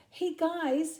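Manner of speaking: high, loud call. Acted. Crikey calling to the two kookaburras, high and loud. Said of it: "he called to them".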